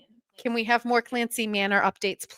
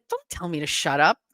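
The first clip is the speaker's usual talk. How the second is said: normal talking voice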